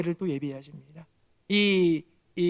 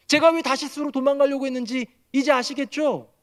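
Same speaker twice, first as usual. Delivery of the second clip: arguing indignantly; 5 semitones higher than usual. Acted. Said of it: "이렇게 하면서 따지는 거예요".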